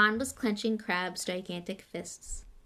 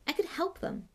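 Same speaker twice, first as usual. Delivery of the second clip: higher-pitched petulant wish; 10 semitones higher than usual. A narrator's reading. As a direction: complain petulantly at being left out. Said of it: "said Malfoy petulantly".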